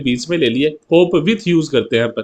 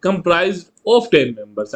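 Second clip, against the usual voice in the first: slow passive example; much slower than usual. Shown as a demonstration. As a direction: read very slowly with a pause after is. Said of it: "जब आप इसका passive बनाओ".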